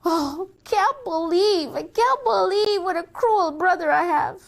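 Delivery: high, whiny indignation; aggrieved complaint. Acted. Sister complaining about her cruel brother, aggrieved. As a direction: drag out the hurt indignantly.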